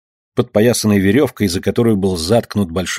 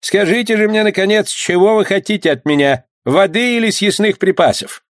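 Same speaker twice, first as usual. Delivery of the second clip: pleading skipper; 10 semitones higher than usual. Acted.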